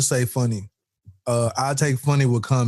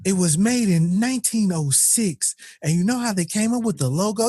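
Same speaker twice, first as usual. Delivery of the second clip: know-it-all; 4 semitones higher than usual. Acted. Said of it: "That person that tell you everything".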